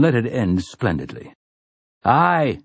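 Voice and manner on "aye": a high called-out aye; shouting. Acted. Roland answers Cuthbert with a high call. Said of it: "he shouts".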